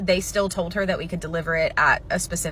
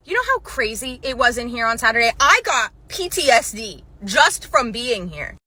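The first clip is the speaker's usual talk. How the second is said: mock whiny customer; 4 semitones higher than usual. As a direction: stretch it out, milking the drama. Mimicking customer's claim.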